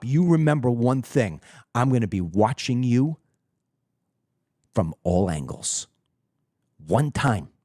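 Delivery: corner him and threaten; a hint of a menacing president dropping almost to a growl at the end. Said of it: "You see how I was doing all that".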